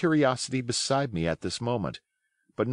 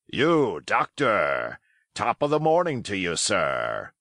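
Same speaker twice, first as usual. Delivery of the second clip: beaming good nature; slower than usual. A narrator's reading. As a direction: boom a cheery welcome. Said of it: "cried Silver, broad awake and beaming with good nature".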